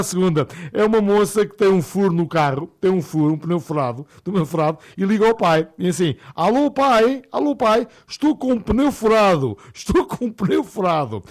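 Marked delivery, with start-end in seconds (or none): 6.3-11.2 daughter's voice. Retold or imitated. Daughter phones father.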